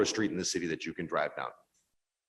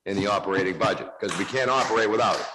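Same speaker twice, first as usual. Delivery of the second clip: heated rebuttal; 4 dB louder than usual. Real, not acted. Heated rebuttal in council debate.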